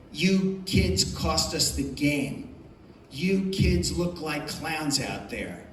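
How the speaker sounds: slow, mock angry tirade at the kids; hammed-up coach chewing kids out, slow and pointed; retold coach yelling. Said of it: "and screamed in our faces".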